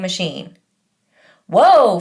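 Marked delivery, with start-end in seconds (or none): 1.5-2.0 a loud, wide-eyed whoa; amazed whoa. Acted. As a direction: Freak marvels at the adventure, loud and amazed. Freak exclaims on arrival.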